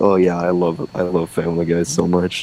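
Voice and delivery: plain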